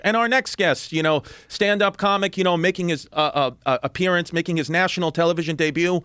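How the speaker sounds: a hint of a TV host introducing a comic; host announcing. Late night host introducing a new guest, mock announcer voice. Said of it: "David Letterman was already being like".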